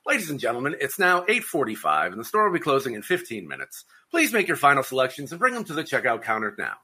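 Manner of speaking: loudspeaker store announcement; store closing announcement. Retold or imitated. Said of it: "they're always like".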